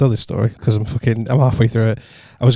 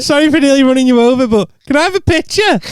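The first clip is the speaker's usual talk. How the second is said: high, gushing apology; breathless high-pitched plea; starstruck fan; 11 semitones higher than usual. Retold or imitated. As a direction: gush like a nervous fan. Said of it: "I went".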